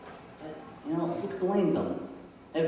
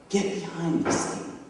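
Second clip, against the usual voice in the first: restrained, firm command; stern rebuke. Retold or imitated. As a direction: dismiss him firmly without shouting. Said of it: "he rebukes Peter".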